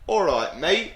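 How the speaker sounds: English-accented "all right, mate", lifting at the end; friendly greeting in a put-on English accent. Shown as a demonstration. Greeting a friend as the English do, English accent. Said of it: "you'll often hear them say".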